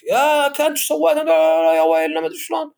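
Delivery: a boss wringing his hands over a mistake; panicking manager. Retold or imitated. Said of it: "المدير يجي يخرجك". (مدير مذعور يولول بصوت عالي)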